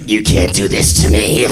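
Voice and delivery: low monstrous werewolf growl; hammed-up werewolf outrage; customer turning werewolf. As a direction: growl it like someone transforming into a beast. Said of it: "a singer turns into a werewolf".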